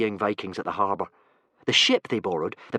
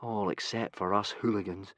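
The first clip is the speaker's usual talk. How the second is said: gloomy; 4 dB quieter than usual. Acted. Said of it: "said Hiccup gloomily".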